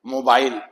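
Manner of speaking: मोबाइल with a long O in मो; long O sound. Shown as a demonstration. Teacher showing first-syllable vowel, long O. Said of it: "तो ये long sound आएगी".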